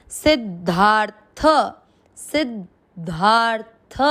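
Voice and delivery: सिद्धार्थ slowly with ध pressed firmly; stressed dh. Shown as a demonstration. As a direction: lean on the ध in सिद्धार्थ. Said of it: "ध पे थोड़ा जोर देके बोलेंगे". (सिद्धार्थ में ध पर ज़ोर देकर)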